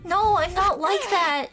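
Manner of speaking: high, drawn-out denial; distressed protest. Acted. Told to give this up, distressed protest. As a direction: protest slowly, pitch lifted. Protests after group rejects plea.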